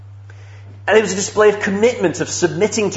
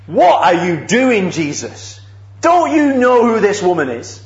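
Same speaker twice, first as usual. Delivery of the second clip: scandalised host. Retold or imitated. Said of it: "He's absolutely scandalised".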